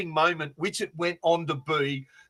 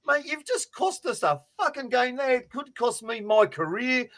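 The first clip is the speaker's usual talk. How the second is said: higher-pitched, mildly frustrated complaint; 5 semitones higher, 3 dB quieter than usual. Acted. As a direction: voice an aggrieved coach without raising the volume. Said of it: "I'd be as frustrated as fuck too".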